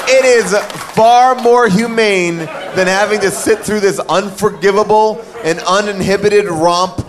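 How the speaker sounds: lightly voiced fussy droid; anxious butler robot reading; C-3PO voice. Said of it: "That sounds like something C three P O would say".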